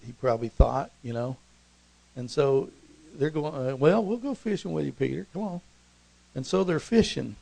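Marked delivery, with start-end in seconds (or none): 3.7-5.6 lightly acted pal, lifted pitch at the start; friends tagging along. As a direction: go along casually with a buddy. Friends agree to join Peter.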